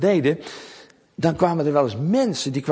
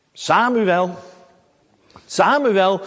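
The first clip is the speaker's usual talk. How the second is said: roepende stem; 5 semitones higher, 4 dB louder, much slower than usual. A narrator's reading. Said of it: "opnieuw die stem".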